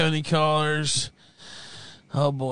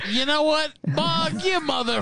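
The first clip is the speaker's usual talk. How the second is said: playful yell; 11 semitones higher than usual. Real, not acted. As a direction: bellow it at him, half joking. Host yells at caller Bog.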